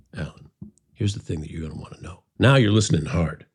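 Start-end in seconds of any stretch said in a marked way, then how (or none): 0.1-2.2 intimate, confidential, close near-whisper. Speaker shows Alan how to grab his attention: leaning in, confiding. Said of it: "if I leaned into you and said".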